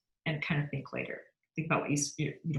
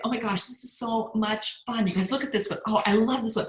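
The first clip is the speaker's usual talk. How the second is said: bubbly, gushing delight, a bit higher; mock excited gushing over the products; 4 semitones higher than usual. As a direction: imitate a thrilled new seller showing off products. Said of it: "She was so excited".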